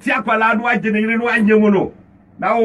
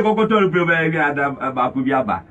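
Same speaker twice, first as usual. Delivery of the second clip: mock quote; 7 semitones lower than usual. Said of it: "you need to say".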